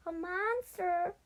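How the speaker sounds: high, loud cry for help; frightened cry. A narrator's reading. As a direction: call out in alarm, drawing out the second part. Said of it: "a voice cried out".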